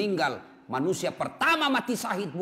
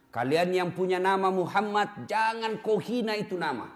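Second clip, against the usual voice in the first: ordinary delivery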